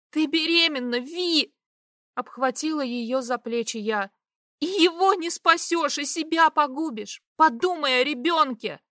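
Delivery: high, loud desperate urging; urgent pleading. A narrator's reading. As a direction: shake sense into her. Stefa urging pregnant Vi.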